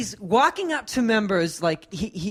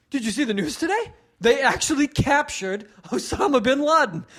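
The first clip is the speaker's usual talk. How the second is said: imitating hack comic; 2 semitones higher than usual. Comic mimics the warm-up guy's dated news jokes, eager. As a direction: pitch the stale topical bit with fake excitement.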